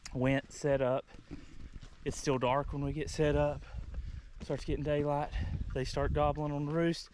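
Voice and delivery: winded from climbing a hill; out of breath. Real, not acted. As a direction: talk while catching your breath. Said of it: "sorry, I'm out of breath".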